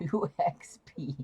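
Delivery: laughing through the words. Real, not acted. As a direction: giggle it out. Laughs at tiny amount.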